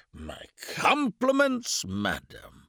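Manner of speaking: high, slow mock gallant; drunk major. A narrator's reading. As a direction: extravagant drunken bow. Drunk major bows extravagantly.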